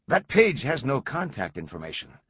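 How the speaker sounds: firm, pushing back; challenging. Acted. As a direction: challenge him, doubting. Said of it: "Langdon challenged".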